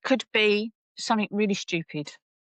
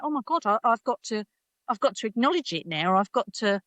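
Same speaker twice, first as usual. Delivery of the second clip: higher-pitched imitation of horrified colleagues; mock horror; 5 semitones higher than usual. Colleagues forced to acknowledge menopause, mock horrified. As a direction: voice their pretend panic. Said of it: "they were horrified because they were like".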